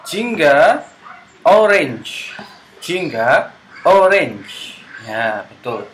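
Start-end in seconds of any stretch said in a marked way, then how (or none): 0.0-4.8 higher, louder drill call; teacher drill. Shown as a demonstration. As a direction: sing out the colour for little kids.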